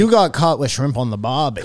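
jokey put-on Australian accent; mock Australian accent. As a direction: tease them with hammy Australian twang. Joining the British-versus-Australian accent contest.

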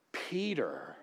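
breathy whisper of the name. Acted. Preacher whispering Peter's name to the congregation. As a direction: drop to a whisper, shaking the head.

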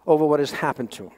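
normal talking voice

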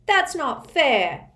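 put-on slow, high whiny child voice; protesting child. A narrator's reading. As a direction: drag out the complaint.

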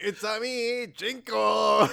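lightly voiced, cheery character entrance; a drawn-out playful impression; Jinko. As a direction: announce yourself in a put-on alien voice. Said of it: "Jinko flies out".

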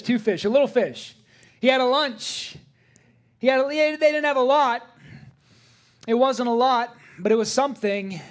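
high, loud preaching to the congregation; full-force preaching. Acted. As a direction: preach it out, building fervour.

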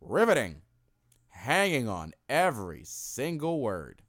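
a hint of a dry announcer, slow; deadpan it like a bored wrestling announcer; lightly done sarcastic announcer. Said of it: "he said it like this".

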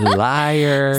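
laughing as she speaks. Real, not acted. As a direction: call out a lie through a laugh. Laughing at friend's excuse.

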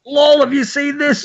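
mocking high voice. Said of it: "everyone was like".

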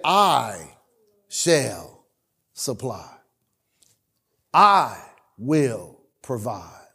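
low, slow, solemn divine voice; voice of God. Acted. Pastor voices the Lord reassuring him, low and slow and solemn. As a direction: speak as the Lord, slow and deep with gravity.

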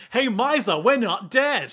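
mock triumphant shout; calling out. Cheerful call-out in retold story.

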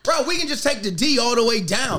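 re-enacted cocky suggestion; retold confident excitement. Excited newcomer showing his homeboy he knows trains, confident re-enactment. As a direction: replay it proudly, sure you know this train. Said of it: "'Cause I was so confident".

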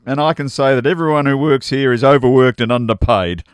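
hint of a tannoy announcer; mock store announcement, half laughing. Reading Beth's announcement aloud.

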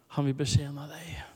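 whispered tender promise. Real, not acted. Preacher whispering to the congregation that Jesus will serve them. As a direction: hush it to the congregation. Tearful moment in worship.

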